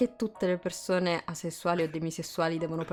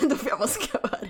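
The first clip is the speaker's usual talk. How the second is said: laughing; 3 semitones higher, 3 dB quieter than usual. Real, not acted. Laughing repeat of friend's joke.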